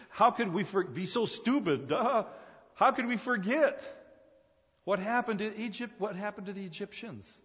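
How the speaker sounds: high, loud, incredulous outcry; mock-dismayed crowd kicking itself; exasperated self-reproach. Philistines reminding themselves how they forgot, exasperated self-reproach. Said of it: "the Philistines are reminding themselves".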